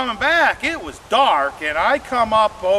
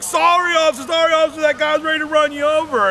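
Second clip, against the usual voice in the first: apologetic rush; 8 semitones higher, faster than usual. Retold or imitated. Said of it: "I'm like".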